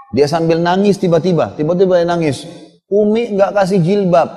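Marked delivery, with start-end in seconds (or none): 2.9-4.3 mock crying child. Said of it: "Nangis gitu".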